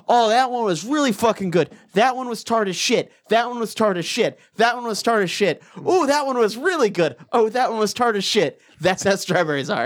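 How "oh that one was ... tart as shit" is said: alternating delight and disgust; strawberry taster voice. Retold or imitated. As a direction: react bite by bite, pleased then soured. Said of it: "Problem with strawberries is, like".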